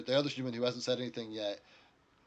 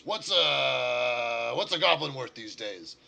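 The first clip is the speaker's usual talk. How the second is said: louder, drawn-out question to a partner; lightly voiced haggler; 3 semitones higher, 9 dB louder, slower than usual. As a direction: put the question out loud to a colleague. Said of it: "he turns to the dwarf and says".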